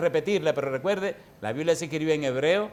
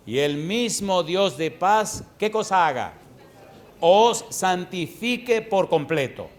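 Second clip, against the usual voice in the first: preach; 2 semitones higher, 3 dB louder, much slower than usual. Real, not acted. Reads scripture aloud from pulpit.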